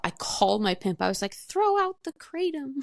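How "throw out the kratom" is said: very high, drawn-out mock-urgent cry; retold urgent order. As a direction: replay an excited phone order, high and slow. Retold urgent call to pimp.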